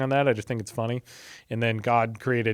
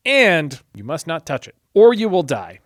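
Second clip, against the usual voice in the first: 神の言葉を強調して; building emphatic warning; 3 semitones higher, 5 dB louder than usual. Acted. Eve quoting God, building.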